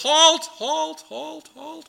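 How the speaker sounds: high shouted halts dropping away; shouted halt fading. Retold or imitated. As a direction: call halt and let it fade down the line. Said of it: "they do it with".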